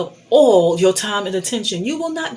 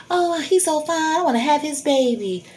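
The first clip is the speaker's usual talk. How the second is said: mock infatuation; 7 semitones higher than usual. Mocks women's foolish thinking.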